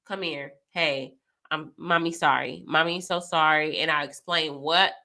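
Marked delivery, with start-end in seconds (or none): 0.0-3.8 put-on lower, gentle apology to her kids; soft apologizing mom. Mom apologizing to her kids, gentle and low. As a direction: coax the child close and say sorry softly. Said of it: "it makes me".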